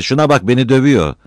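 high, loud tattling complaint; child's shout. A narrator's reading. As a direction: yell to mum about a sibling. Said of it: "diye bağırdı biri".

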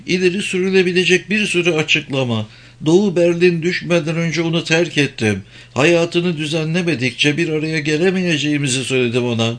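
high, urgent pleading woman. Acted. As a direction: beg him anxiously, voice up high. Karin's distressed high voice. (yalvaran, tiz kadın sesi)

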